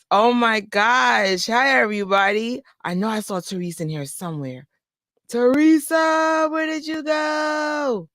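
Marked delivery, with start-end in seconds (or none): 5.3-8.1 high, slow sing-song call; calling out playfully. Pretend. Host searching the chat for a viewer, sing-song call. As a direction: call her like hunting for a hidden friend.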